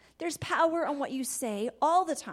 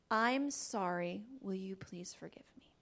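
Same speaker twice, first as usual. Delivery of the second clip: whispered apology; 3 semitones lower, 6 dB quieter than usual. Shown as a demonstration. Family member apologizing, whispered. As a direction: breathe out a tender sorry. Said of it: "everyday words".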